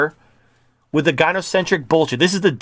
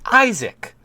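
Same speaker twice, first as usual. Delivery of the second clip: high call; 7 semitones higher than usual. Acted. Calling the man's name.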